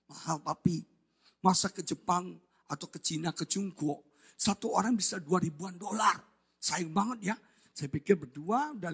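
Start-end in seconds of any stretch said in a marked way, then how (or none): 0.1-7.4 soft, low voice of a reluctant wife; istri keberatan. Retold or imitated. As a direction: imitate a wife quietly balking at the cost. Acts wife balking at the price. (istri keberatan, suara pelan dan rendah)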